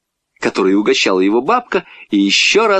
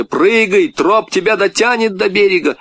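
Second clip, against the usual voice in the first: higher-pitched urging to jump; 9 semitones higher than usual. A narrator's reading. Boy urging frightened girl into the water, urgent. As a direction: coax her firmly, pitch lifted.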